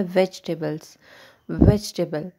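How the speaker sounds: वेजिटेबल्स said smoothly in one flow, no break between syllables. Shown as a demonstration. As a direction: glide through वेजिटेबल in a single breath. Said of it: "आपने एक flow में बोलना है". (वेजिटेबल एक flow में बोलिए)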